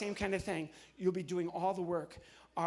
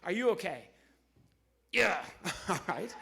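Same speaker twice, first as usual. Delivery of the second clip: ordinary talk, nothing marked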